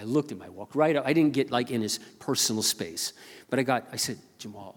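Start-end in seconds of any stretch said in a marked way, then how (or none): 4.4-4.8 soft, hushed greeting; said quietly. Retold or imitated. Pastor greets Jamal at the store, quietly. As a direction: drop your voice right down, gently. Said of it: "I said it quietly".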